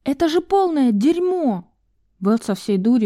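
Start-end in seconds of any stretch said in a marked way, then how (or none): 0.0-1.7 high, heated outburst at the rotten walls; furious curse. Acted. Val cursing the rotten shack in fury. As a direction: spit it out in disgust. Val kicks the wall, swearing.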